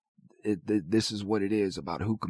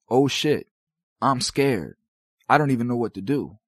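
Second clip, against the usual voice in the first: scared inner voice; 4 dB louder than usual. Retold or imitated. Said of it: "is now telling him".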